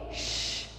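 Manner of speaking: unvoiced hushing "sh" on its own; sound demo. Shown as a demonstration. Teacher showing the sound of C and H, isolated "sh". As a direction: say "sh" as one soft hiss. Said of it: "têm som de".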